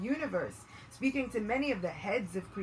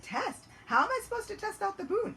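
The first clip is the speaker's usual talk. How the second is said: very high, hurried incredulous question; baffled outburst; 13 semitones higher, 3 dB louder than usual. Acted. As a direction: blurt it out in high-pitched bewilderment. Baffled demon questions the Brahmin.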